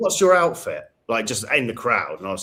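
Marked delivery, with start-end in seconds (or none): 0.0-0.8 imitated American accent, higher and louder. Retelling what a girl in a street party crowd asked: American accent. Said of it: "I heard the American accent".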